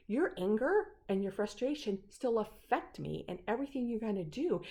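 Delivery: insistent retold reproach; firm confrontation. Patient telling Nick his frustration affects her, firm. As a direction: press the point, retelling it.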